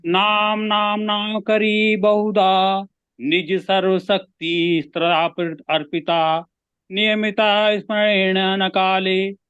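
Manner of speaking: slow, lilting recitation of a Sanskrit verse, rising on each opening; Sanskrit shloka recitation. Shown as a demonstration. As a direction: recite the verse devotionally, drawing out the first line. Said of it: "तो मैं सुना दूं". (धीमे स्वर में श्लोक पाठ)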